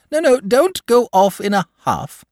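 high, loud hurried dragon voice; hasty dragon. A narrator's reading. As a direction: rush it, anxious not to offend. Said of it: "said the dragon hastily".

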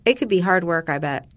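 upbeat host-read insurance ad. Acted. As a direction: read it like a radio spot. Host reads sponsor ad.

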